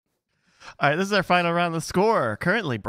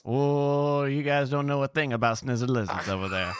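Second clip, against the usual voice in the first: bad New England accent. The speaker as New England local scoffing at the Texans. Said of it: "you don't know about what a New England accent sounds like".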